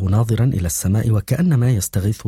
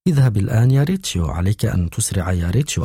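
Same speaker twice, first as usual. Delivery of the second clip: a light mock of a girl's urgent pleading; imitating Dubora. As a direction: hurry him along in her voice, only lightly voiced. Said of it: "وقال مقلدا صوتها".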